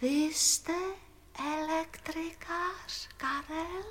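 hushed, careful question; tichý hlas. Acted. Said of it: "Neumí nahlas, je tichá". (potichu se zeptat)

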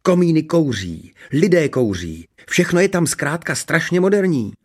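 high-voiced, rapturous princess; gushing. A narrator's reading. Princess admiring modern human life, gushing. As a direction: enthuse over every item, high. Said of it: "rozplývala se Ksenie".

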